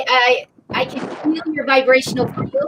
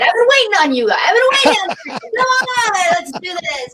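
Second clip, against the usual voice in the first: eager calling out; 5 semitones higher than usual. Acted. Guest urging listeners to come on, eager calling out. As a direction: call them along, pitch swooping up. Calling out a playful plea to the audience.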